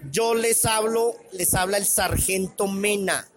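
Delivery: lightly voiced drill sergeant; Sargento Mena. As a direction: announce it like the army sergeant from the film. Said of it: "ahora sí como sargento".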